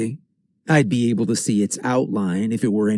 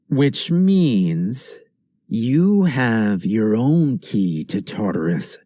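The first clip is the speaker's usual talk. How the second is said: voice dropped; slower than usual. Acted. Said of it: "My voice has dropped".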